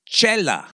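"Chela" said as CHEH-lah, stress on the first syllable; pronunciation demo. Shown as a demonstration. Explaining to Mister B how "Chela" is said, cheh-lah.

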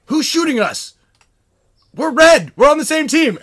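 high, loud mock confusion; hammed-up indignant hollering; retold protesting shouts. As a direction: yell across the field to your team. Players protest supposed friendly fire.

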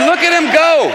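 high onlooker's cry, imitated; retold amazed holler. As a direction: call out in mock amazement at a runner. Onlooker exclaims as man runs.

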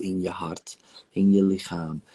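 hushed tender whisper. Acted. Therapist whispering to client hugging her inner child. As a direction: breathe it softly into the quiet.

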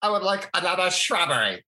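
high, silly British character voice; prissy comic Brit, played broad; Monty Python voice. Shown as a demonstration. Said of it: "I go right back to Monty Python".

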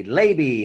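Labby said with a long A, as in LAY-bee; "Labby" with the vowel of lay; mispronounced surname. Real, not acted. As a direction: say "Labby" as if spelt Laybee. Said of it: "At last, you pronounce it correctly".

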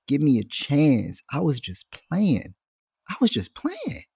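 slow, whiny plea for mercy; pleading kid. Retold or imitated. Caught student begging the teacher for another chance. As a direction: beg like a caught schoolkid.

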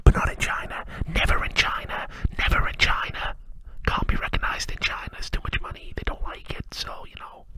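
whispered, fading to almost nothing; mock secretive whisper. Mocking the companies' China excuse in a whisper. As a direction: hush it like a guilty secret.

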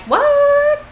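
shocked, very high-pitched exclamation; hammed-up shock, loud and drawn out; Dean. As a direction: squeal it in mock disbelief. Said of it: "Dean looks, like, shocked".

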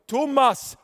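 loud, high call from above. Retold or imitated. Calling to the binman from the balcony. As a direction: call his name down from a balcony.

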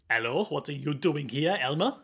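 prisoner with a put-on French accent; Huey's French accent. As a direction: greet a visitor in mock French accent. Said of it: "he's been speaking with a French accent".

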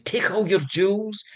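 put-on wise old man's whisper. Wise old man advises the princess in a whisper. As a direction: hush it like a sage. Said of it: "wise old man".

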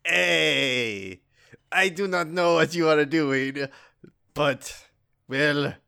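halting character impression; lightly put-on voice with drawn-out words; Jinko. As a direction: imitate a crewmate, pausing between phrases. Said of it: "here, I'll do a Jinko".

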